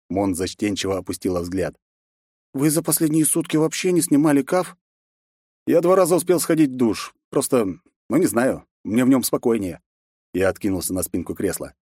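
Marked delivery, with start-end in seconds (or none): 2.5-9.8 lightly voiced young girl, a bit higher; Mon, asking her master, higher girlish voice; girl's voice, higher. Mon voiced higher than narration.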